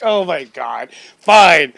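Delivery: loud, laughing oh my God, fine; exasperated giving in. Retold or imitated. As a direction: throw up your hands and concede. Giving in to the dog's answer.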